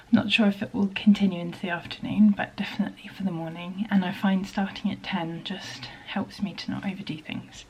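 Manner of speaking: breathless after climbing stairs; winded, catching breath between words. Real, not acted. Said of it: "Ah, a bit out of breath".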